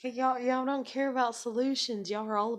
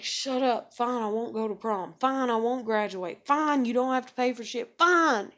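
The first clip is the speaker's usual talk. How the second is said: louder, snapping fine again and again; exasperated shout; 2 semitones higher, 5 dB louder than usual. Retold or imitated. To complaining family, mock exasperated giving in. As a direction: give up in loud frustration. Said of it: "And it's like".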